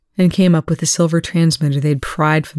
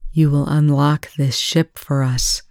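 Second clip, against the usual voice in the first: commanding. Acted. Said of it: "her voice a command".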